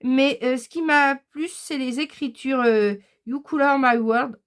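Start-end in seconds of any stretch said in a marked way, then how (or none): 3.3-4.4 English read with a French accent; non-native English, French accent. Real, not acted. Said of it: "excusez-moi l'accent anglais".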